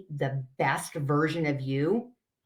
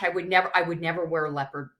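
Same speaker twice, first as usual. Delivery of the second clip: retold protest; much faster than usual. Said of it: "She's like".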